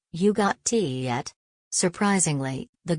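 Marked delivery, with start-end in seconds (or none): 0.1-1.3 slow, hammed-up fake British accent; mock British accent. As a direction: ask it in a tourist's bad British accent. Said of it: "of course in her British accent".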